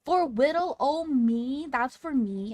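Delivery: high, squeaky disbelieving delight; flustered surprise. Retold or imitated. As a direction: squeal like you got a gift. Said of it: "I was like".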